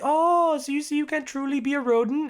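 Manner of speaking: high, loud, sneering taunt in an imitated voice; mock the patient with a cruel sing-song; imitating a cruel zookeeper jeering at a patient. Zookeeper mocking squirrel patient.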